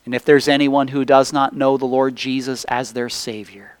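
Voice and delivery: measured prayer with long pauses between phrases; earnest public prayer. Real, not acted. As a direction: pray aloud to the Father, phrase by phrase. Leads the congregation in prayer.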